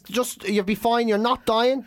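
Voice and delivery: lightly acted, measured reassurance; calming. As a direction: talk a panicking man down evenly. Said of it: "He starts trying to calm me down".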